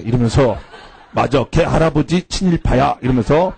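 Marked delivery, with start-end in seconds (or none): 1.1-3.0 understated imitation of an earnest teacher; deadpan, as if confirming a fact; lightly mocked solemn claim; mock-serious. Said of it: "이거를 굉장히 진지하게".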